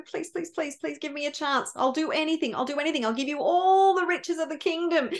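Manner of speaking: repeated pleas growing fuller in voice; acted desperate mother, begging for mercy; pleading. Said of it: "sobbing and pleading".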